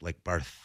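Barth said with a soft th ending; lisped Barth. Shown as a demonstration. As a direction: say Barth with a lisp. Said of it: "It's almost like a lisp".

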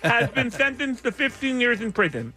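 talking through a mouth guard; news read with a mouthful of plastic. Real, not acted. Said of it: "I'm drowning".

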